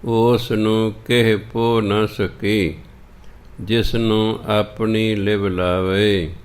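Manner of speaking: measured, drawn-out recital of Gurbani; slow scripture recitation. Acted. Teacher recites the shabad for the sangat, slow and measured. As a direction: recite each line slowly and devoutly.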